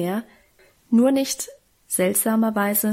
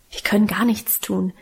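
ordinary delivery, nothing marked

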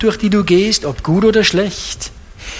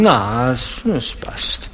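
low, half-whispered brush-off; dismissive mumble; 5 semitones lower, 4 dB quieter, slower than usual. Retold or imitated. Preacher playing Christians avoiding talk of parents, mumbled brush-off. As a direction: shrug it off under the breath.

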